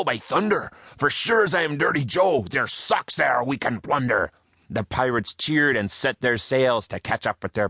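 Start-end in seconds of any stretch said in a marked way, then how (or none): 0.0-4.3 a hint of a gusty pirate captain, raised pitch; rally the crew like a greedy pirate. Pirate Joe urging his crew on, eager and high. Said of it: "said Joe".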